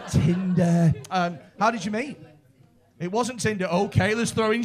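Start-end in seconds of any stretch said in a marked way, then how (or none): 0.1-0.9 heckler blurt. Retold or imitated. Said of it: "a woman at the front then that just went".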